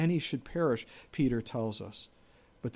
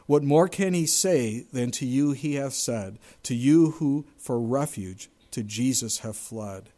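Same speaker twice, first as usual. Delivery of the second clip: hymn recital; 4 dB louder than usual. Acted. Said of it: "the songwriter, wrote this".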